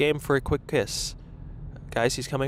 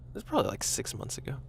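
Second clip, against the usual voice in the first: whisper; 7 dB quieter, faster than usual. Real, not acted. Quiet self-correction aside.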